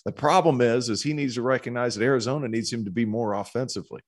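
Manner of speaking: high, light Swedish accent imitation. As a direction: quote him in a Swedish lilt. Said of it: "in his Swedish accent".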